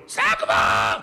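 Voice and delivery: mock yell to drive on; impatient shout. Driver behind yells at the slowing scholar, impatient shout. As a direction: bark it out the window. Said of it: "מישהו מאחורה צורף לו".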